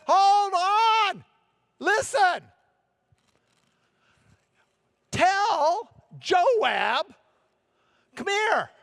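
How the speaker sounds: high, loud call to the troops below; yelling down from the wall. Acted. Wise woman calling down to besieging troops, loud high shout. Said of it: "She's up on the wall. She's yelling down to the troops".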